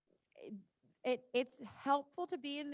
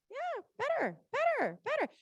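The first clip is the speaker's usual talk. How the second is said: excited praise; 10 semitones higher than usual. Real, not acted. Praising the horse, pitch jump.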